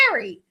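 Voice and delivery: Terry as "TEH-ree"; Jersey-style Terry, TEH-ree; Jersey pronunciation. Shown as a demonstration. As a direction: give Terry an open "eh". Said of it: "But in Jersey, we say".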